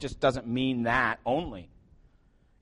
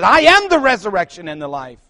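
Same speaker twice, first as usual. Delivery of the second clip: stern Jesus; 4 semitones higher, 9 dB louder than usual. Retold or imitated. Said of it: "in a stern voice".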